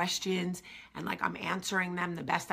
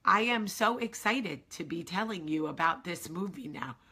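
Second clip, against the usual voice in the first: mildly robotic, even, monotone delivery; a hint of a stiff robot. Nervous at the pitch, mildly robotic monotone. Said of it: "I start talking like a robot".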